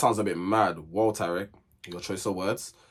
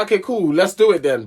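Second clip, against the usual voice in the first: slightly raised, lively retold agreement; high-pitched quote; 5 semitones higher, 5 dB louder than usual. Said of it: "in my little high-pitched voice".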